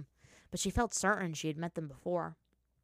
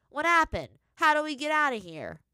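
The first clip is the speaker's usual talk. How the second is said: urgent; 9 semitones higher, 9 dB louder than usual. A narrator's reading. Lost spirit demanding answers.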